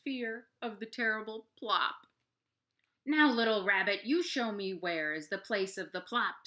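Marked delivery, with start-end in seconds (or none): 3.1-6.5 snarling. Acted. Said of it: "snarls the big brown bear".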